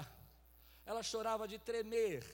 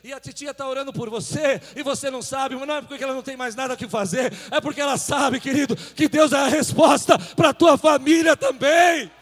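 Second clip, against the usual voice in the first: preaching crescendo; 4 semitones higher, 21 dB louder than usual. Real, not acted. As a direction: drive it up to a shouted climax. Preaching builds to a shout. (pregação crescente até o grito)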